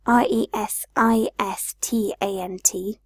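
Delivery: R E S I S T A N T spelled letter by letter; spelling out letters. Shown as a demonstration.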